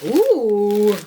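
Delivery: very high, loud squealing delight; excited squeal. Real, not acted. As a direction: squeal with joy over the foils. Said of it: "I'm so excited".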